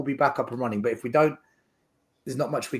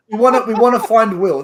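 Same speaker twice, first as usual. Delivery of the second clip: emphatic; 7 semitones higher, 10 dB louder than usual. Real, not acted. Insists on priority.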